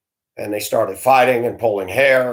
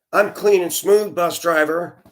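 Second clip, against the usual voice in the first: playful higher flirt, lightly imitated; 6 semitones higher than usual. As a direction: tease it up in a higher coy voice. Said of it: "being as sexy as she can".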